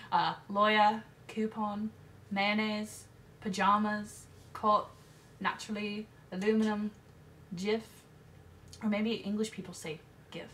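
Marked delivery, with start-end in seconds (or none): 0.1-7.9 put-on light British accent, listing the words; a nervous put-on British accent; mock British accent. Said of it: "English accents".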